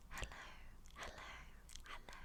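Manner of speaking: hushed ASMR whisper. Shown as a demonstration. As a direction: whisper hello with no voice.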